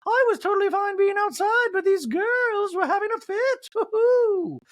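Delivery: very high, loud sarcastic voice; mock innocence in falsetto; high smug sarcasm; sarcastic Dorit. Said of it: "Dorit sarcastically goes".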